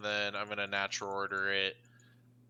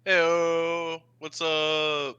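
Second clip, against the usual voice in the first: excited greeting; 6 semitones higher, 8 dB louder, much slower than usual. Real, not acted. Greeting chat loudly.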